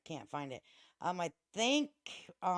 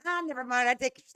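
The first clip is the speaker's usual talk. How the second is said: jokey jab; 8 semitones higher, 4 dB louder than usual. Pretend. Joking about jail.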